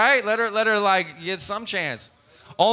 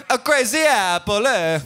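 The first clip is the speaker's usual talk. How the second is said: put-on Italian accent; 2 semitones higher than usual. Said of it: "What's the Italian?".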